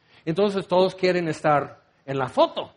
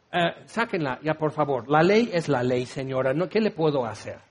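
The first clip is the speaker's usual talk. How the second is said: a hint of a heartless tax collector; cold dismissal; 5 semitones lower than usual. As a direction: shrug her off like a bored official. Zaqueo coldly dismissing the widow.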